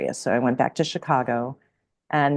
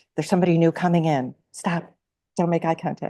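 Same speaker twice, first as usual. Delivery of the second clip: put-on mortified, embarrassed voice, higher pitch; 4 semitones higher than usual. Retelling what a daughter used to say: imitating a mortified daughter. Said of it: "my daughter's mortified".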